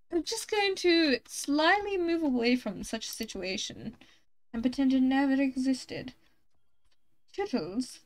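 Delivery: lightly put-on posh English accent; a playful posh accent, excusing oneself. Backing out of an awkward situation, mock posh accent. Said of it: "now I can do the posh accent".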